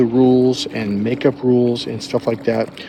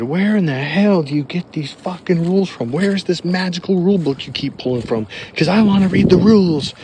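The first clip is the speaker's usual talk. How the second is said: higher, louder, calling her out; retold angry yelling; 6 semitones higher, 5 dB louder than usual. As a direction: demand the rule book, loud and fed up. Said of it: "I literally said that".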